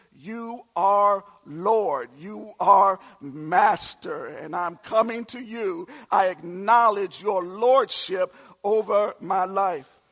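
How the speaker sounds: slow, earnest praying voice; prayer. Acted. Believer praying to the Lord, slow and earnest. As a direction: pray it slowly, from the heart.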